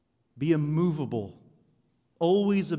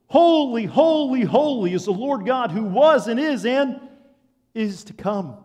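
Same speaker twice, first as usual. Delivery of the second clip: high and loud, each holy called out like a proclamation; ringing angelic praise; 9 semitones higher, 13 dB louder than usual. Acted. Preacher voicing angels praising the Lord, loud and ringing. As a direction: cry it out as the angels would, full voice.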